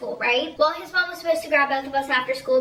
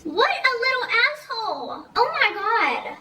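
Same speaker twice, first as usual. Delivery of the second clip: indignant outburst; 8 semitones higher than usual. Real, not acted. Storyteller reacting to the boy's cruelty, indignant high outburst. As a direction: break out of the story, appalled and high.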